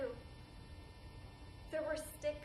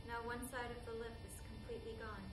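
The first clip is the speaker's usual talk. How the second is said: subdued testimony; 2 semitones lower, 7 dB quieter than usual. Acted. Survivor recounting her injury after the war, subdued. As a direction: keep it soft and held in.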